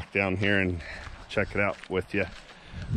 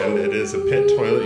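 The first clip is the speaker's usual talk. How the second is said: loud; 8 dB louder than usual. Real, not acted. Joking in echoey restroom.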